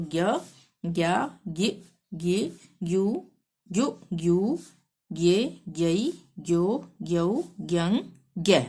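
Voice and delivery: measured sing-song letter chanting; syllable drill recitation. Shown as a demonstration. Teacher reciting Hindi syllables for learners, sing-song drill. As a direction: recite each syllable separately with a lilt.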